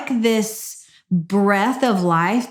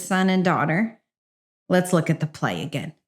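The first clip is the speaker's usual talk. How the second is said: softer, tender invitation to try again; gentle fatherly voice; 3 semitones lower, 4 dB quieter than usual. Retold or imitated. God gently offering the playbook again, softly. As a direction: coax them back to the playbook kindly. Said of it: "and he says".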